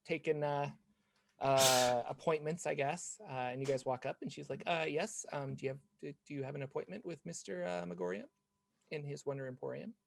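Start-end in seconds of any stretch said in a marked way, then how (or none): 4.7-9.9 clerk voice. Acted. DM voices shop clerk Natalie.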